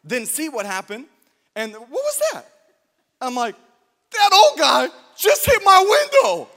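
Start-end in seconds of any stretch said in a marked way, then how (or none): 1.7-2.4 high startled question, imitating the wife. Preacher voicing his wife when the window is hit. 4.1-6.5 loud, high, slow mock tough line; mock heroic report. Preacher pretending he told his wife calmly and boldly. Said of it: "I didn't say it like that".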